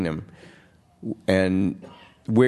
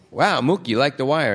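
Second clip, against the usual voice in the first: amazed cops; 6 semitones higher than usual. Retold or imitated. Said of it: "and the cops go".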